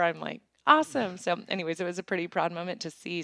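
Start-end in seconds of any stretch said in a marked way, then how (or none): 0.7-1.2 high, loud reenacted delight; reliving a delighted reply; excited retelling. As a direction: punch it out, thrilled. Acting out own thrilled reply.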